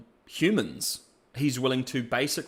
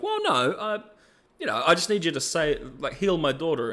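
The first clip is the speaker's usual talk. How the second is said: voicing Singed; 3 semitones higher than usual. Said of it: "Singed is like".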